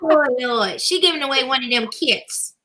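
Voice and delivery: church mother giving out announcements; lightly put-on church mother, unhurried and folksy; good mother voice. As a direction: read the notices like a church mother addressing her babies. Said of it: "put on my good mother voice".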